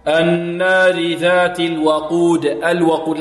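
slow recitation, الوقود with a light waw and open a. Shown as a demonstration. Teacher models the verse for students, light waw in الوقود. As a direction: keep the waw of الوقود thin before the heavy qaf. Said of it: "لا تفخم الواو ولا".

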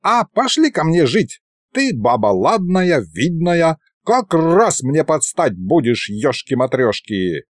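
put-on high-pitched old sorcerer courting boldly; high voice, slowing into a folksy oath; old ghost sorcerer, wooing. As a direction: woo like a boastful old spook.

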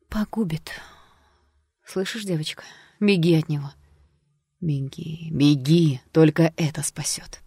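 urgent, shifting between hush and outburst; frightened warning. A narrator's reading. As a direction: plead with her to run. Fortune teller urging to run. (испуганно, с нажимом)

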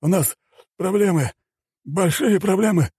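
high, urgent alarm; winded general raising the alarm; out of breath. A narrator's reading. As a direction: blurt out bad news in a high voice. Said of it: "едва переводя дыхание, выпалил он".

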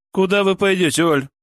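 высокий изумлённый вопрос; спросить с удивлением, повысив голос; изумлённо. Acted. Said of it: "изумлённо поинтересовалась Зоя". (изумлённо, недоумевая)

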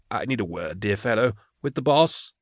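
a hint of a hesitant, polite visitor, softly; lightly voiced timid gentleman, rising at the end; tentative visitor. Nervous visitor addresses gruff guard.

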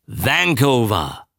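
slow, drawn-out recall at normal pitch; dawning recollection. Acted. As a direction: savour the word as it comes back. Just remembered the ship name. (gedehnt, sich langsam erinnernd)

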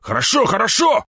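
high, panicky cry; wailing in submission. A narrator's reading. Thugs surrendering to the hero, high wailing. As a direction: give in with a frightened wail. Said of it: "заголосили они".

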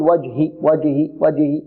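وجه with the jeem barely bounced; وجه with weak qalqala. Shown as a demonstration. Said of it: "يأتي بقلقلة ضعيفة".

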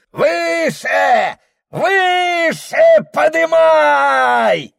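high, drawn-out shouted call; frenzied chorus. Acted. Spectators chant with the shaman, a high slow shout. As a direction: whip the crowd up, slowly and loud.

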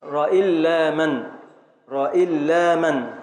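"راء إلا من" slowly, syllable by syllable; metrical scansion. Shown as a demonstration. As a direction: stretch the long "لا" in "راء إلا من". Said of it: "هنبدأ من الراء".

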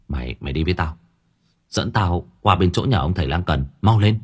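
put-on low, urgent young master, rising on the last words; hurried order. Young master urgently ordering servant to fetch the healer. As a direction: push the servant out the door. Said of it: "gấp gáp nói".

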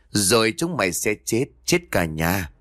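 lightly voiced threat of death to the whole family; gloomy otherworldly voice. Possessed mistress finishing her curse on the household, lightly eerie. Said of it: "Một giọng âm u được phát ra như của một kẻ khác".

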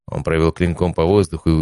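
ordinary delivery, nothing marked

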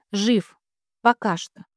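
ordinary delivery

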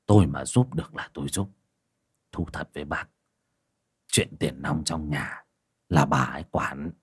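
cautious husband, softly voiced; old man explaining his wife holds the money. Quyền answers cautiously.

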